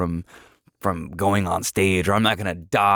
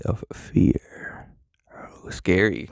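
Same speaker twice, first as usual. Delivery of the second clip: whisper; much slower than usual. Pretend. Mock spooky intro about fear.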